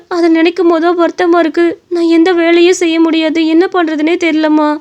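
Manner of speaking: lightly voiced, troubled wife; sorrowful young wife. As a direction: confide your helplessness to an elder. Wife tells woman her troubles. (வருத்தத்துடன் கஷ்டத்தைச் சொல்லும் மனைவி)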